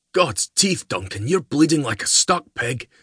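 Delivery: high, alarmed Highland voice; Archie. Acted. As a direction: cry out in alarm at the wound.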